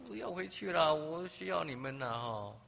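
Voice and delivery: high, loud plea, then slowing; pleading cry. Retold or imitated. The girl begging the Canadian volunteers to stay, a loud high plea. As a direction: beg them not to leave.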